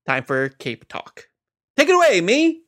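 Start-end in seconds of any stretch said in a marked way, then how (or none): 1.8-2.6 much higher sung jingle call; announcer voice. Acted. Announces segment jingle-style.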